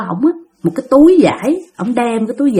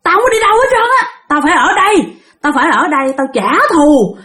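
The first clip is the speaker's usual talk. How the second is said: mildly raised, aggrieved ranting; fierce defiance; 5 semitones higher than usual. Retold or imitated. Vengeful spirit telling the master about her killer, fierce. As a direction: retell a spirit's bitter outburst. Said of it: "Lúc đó bả làm dữ lắm".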